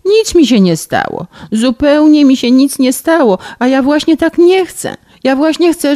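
high, loud sobbing complaint; szlochając. Acted. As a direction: wail it out like a spoiled girl. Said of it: "w bek". (zanosząc się płaczem, wysoko i głośno)

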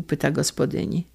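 ordinary delivery

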